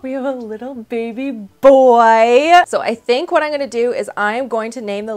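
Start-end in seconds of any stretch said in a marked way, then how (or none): 0.0-2.5 very high, loud, stretched cry of joy; ecstatic shout. Real, not acted. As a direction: scream it out with delight. Baby is born on screen.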